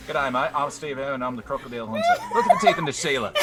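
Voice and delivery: rough Australian crocodile-hunter imitation; Steve Irwin. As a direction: do a mock Aussie presenter, cracking up. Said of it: "trying to imitate Steve Irwin".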